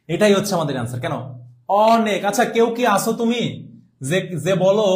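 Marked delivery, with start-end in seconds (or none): 1.9-2.2 "অনেক" opening on a long open aw; teacher's model "অনেক" with wide first vowel; correct pronunciation demo. Shown as a demonstration. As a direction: say "অনেক" as aw-nek. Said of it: "অ এর মতে উচ্চারণ করো".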